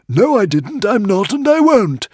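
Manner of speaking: tiny frantic squeaking creature; squeaky little dragon. A narrator's reading. Woden's Fang answers.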